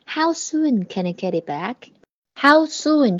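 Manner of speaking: How soon drawn out slowly for students; slow, deliberate. Shown as a demonstration. Teacher slowly modelling how soon for students. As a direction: stretch How soon out, word by word. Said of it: "这是问多快多久的意思".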